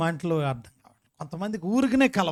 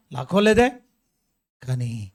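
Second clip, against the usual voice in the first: ordinary talk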